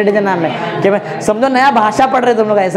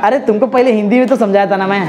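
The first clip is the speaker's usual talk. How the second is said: laughing; much faster than usual. Real, not acted. Teasing class while laughing.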